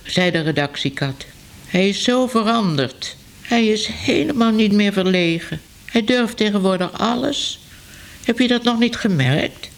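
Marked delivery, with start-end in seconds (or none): 1.7-9.7 lightly voiced cat, a touch higher; a hint of a chatty cat passing on news; newsroom cat.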